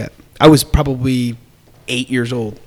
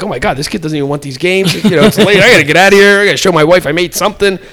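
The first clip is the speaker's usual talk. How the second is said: vendor; 4 semitones higher, 5 dB louder, faster than usual. Retold or imitated.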